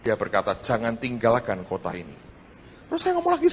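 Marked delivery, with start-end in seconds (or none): 0.6-2.1 low, soft and solemn; a hushed divine command, spoken low; God's quiet command. Acted. God telling the preacher in prayer not to leave, low and hushed.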